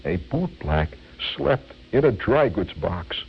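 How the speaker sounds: lightly mock-theatrical recitation; dramatic reciter. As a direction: open low and pause for effect. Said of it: "in a very dramatic voice".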